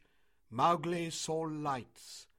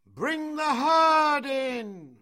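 long, high, drawn-out holler; yelled command; 13 semitones higher, 13 dB louder, much slower than usual. A narrator's reading. Mowgli ordering Akela to drive the herd, yelling. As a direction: yell it slowly across the field. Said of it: "They hardly needed Akela's yell".

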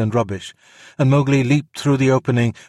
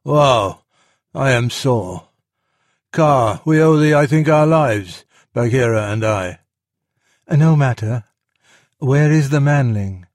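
lightly voiced, raised and loud; a touch of animal character, pitched up and louder; sore storybook animals; 3 semitones higher, 5 dB louder than usual. A narrator's reading. Sore bear thanks the python for their lives, lightly voiced. Voices Baloo, then Kaa.

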